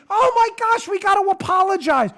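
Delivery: high, shouted mock panic. Host mocking companies rushing to apologize, high shout. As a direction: squeal the apology like a panicked PR team. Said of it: "everybody's like".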